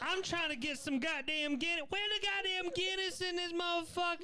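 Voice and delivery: put-on high-pitched caricatured Black American accent. Comic playing an Irishman, in a Black American accent. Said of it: "can you do a black accent of someone".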